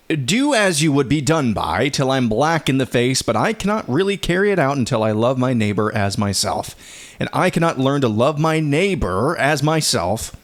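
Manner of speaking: earnest read-aloud quotation; reading a quote. Acted.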